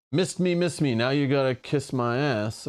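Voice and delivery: singsong taunting heckle; dunk tank heckler. Pretend. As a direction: tease like a schoolyard heckler. Taunting rhyme reading Dodge card.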